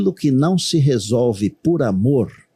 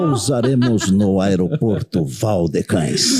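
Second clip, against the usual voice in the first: over the intercom; 3 semitones lower, slower than usual. Pretend. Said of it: "Eu diria mais ou menos assim".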